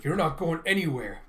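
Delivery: emphatic acted defiance; mildly forceful hero line; defiant warning. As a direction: challenge a fleeing enemy. Kafka defies the mushroom kaiju.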